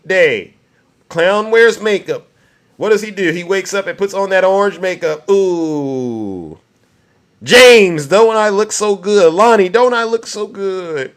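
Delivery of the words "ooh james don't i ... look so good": drawn-out "Ooh", then lightly mimicked self-admiration; hammed-up fishing for compliments; mock vain preening. Mimics the man admiring himself.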